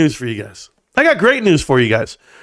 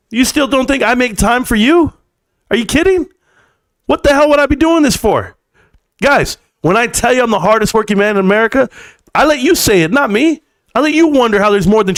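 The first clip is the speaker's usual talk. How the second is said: pitched-up exasperated rant at viewers; heated rant; 6 semitones higher than usual. Real, not acted. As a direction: fire back at the doubters. Streamer ranting at doubting viewers.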